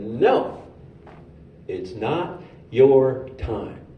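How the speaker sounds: slow, calm and firm, a voice from above; solemn heavenly voice. Retold or imitated. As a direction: speak each word slowly like a stern angel. Divine voice stops his fall.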